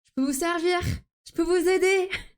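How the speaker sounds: voix de vendeuse mielleuse; customer service voice. Retold or imitated. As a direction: offer help to a customer sweetly. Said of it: "je suis vraiment là en mode".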